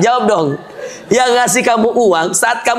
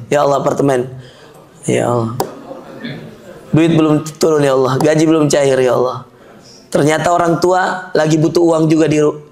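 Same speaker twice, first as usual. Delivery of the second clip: lower, whiny pleading to God, half-joking; hammed-up lament over rent and prices; mock weepy prayer; 6 semitones lower than usual. Preacher mimics broke worshipper crying to God, mock weepy prayer. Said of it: "doa pakai nangis".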